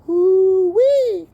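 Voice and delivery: loud, high whoop after a hit; hooting woo-wee. Real, not acted.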